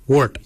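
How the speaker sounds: wort said alone as one syllable, falling; "wort" as a careful language-lesson example; Noongar word demo. Shown as a demonstration. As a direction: model "wort" clearly for learners. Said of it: "we say".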